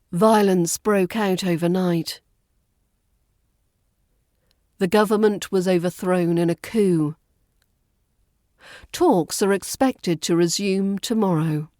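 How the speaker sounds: calm news sentences, each falling at the end; measured pace, let every sentence fall; measured, falling intonation. Shown as a demonstration. Teacher giving sentences to repeat calmly. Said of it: "measured pace and a falling intonation".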